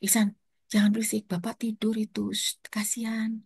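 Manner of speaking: softened hush tailing into a whisper; hushing a child. Retold or imitated. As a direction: shush a noisy child near a sleeper. Hushing child, father sleeping.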